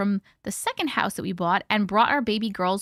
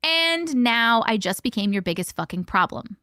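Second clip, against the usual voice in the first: serious threat. Retold or imitated. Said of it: "I changed my tone of voice to serious".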